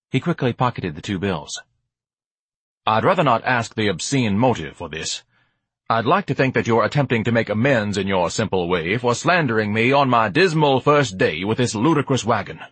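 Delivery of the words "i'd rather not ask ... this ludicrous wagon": lightly voiced lofty grandee; mildly grand, orotund speechifying; pompous Ignatius, magnanimous. Ignatius graciously accepts amends, lightly pompous.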